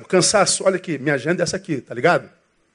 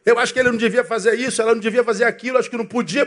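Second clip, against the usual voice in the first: mock nosy busybody, fast and lightly higher; gossip voice; 6 semitones higher, faster than usual. Preacher mocking church gossips, fast nosy tone. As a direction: play a meddling gossip, fast. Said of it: "se metendo na vida".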